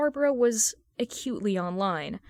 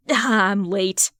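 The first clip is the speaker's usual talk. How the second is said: loud breathless arrival; excited latecomer; 7 dB louder than usual. Acted. Fan arriving late to the stream, loud and eager. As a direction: burst in like you ran to get here.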